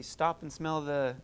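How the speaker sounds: slow and drawn out. Shown as a demonstration. Teacher slowly quotes the saying to the class. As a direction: stretch each word, take your time. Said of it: "what do they say".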